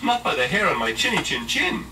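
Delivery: high, loud defiant little pig. Acted. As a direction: refuse firmly, small and loud. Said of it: "cried the little pig".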